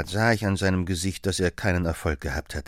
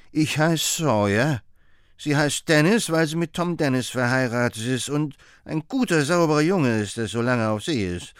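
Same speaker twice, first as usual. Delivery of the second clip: put-on old woman's voice pitched higher, rambling on; alte Frau; 5 semitones higher than usual. Old woman rambles about family. (leicht höher gesprochene alte Frau, geschwätzig)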